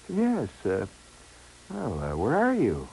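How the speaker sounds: languid imitated woman; melting phone voice. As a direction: draw it out sweetly and lazily. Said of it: "kind of voice that just comes melting".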